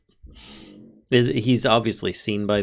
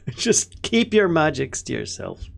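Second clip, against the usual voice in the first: alarmed warning; 6 semitones higher than usual. Acted. Character wards off feared spellcaster.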